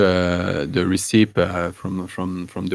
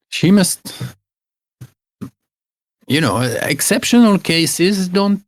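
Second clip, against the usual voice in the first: put-on higher-pitched old woman explaining a cure; higher old crone giving remedy advice; old woman herbalist; 8 semitones higher than usual. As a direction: play the old village healer, fussy and sure of herself. GM voices Gerda the herbalist.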